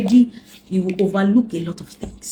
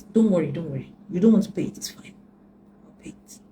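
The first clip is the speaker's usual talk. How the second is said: soothing give-in. Retold or imitated. Calmly yielding to ex.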